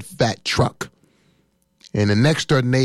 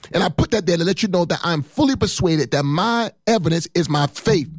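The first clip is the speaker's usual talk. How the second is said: punchy sermon cadence, key words leaned on; fiery preaching; 6 semitones higher than usual. Real, not acted. Preacher telling the church his faith won't bend, fiery preaching. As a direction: preach it like a man on a mission.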